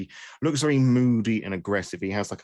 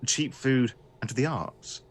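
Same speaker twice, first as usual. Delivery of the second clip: lively, raised storyteller delivery; game master's scene setting; 4 semitones higher than usual. Acted. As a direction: paint the city for the players, lifting key phrases.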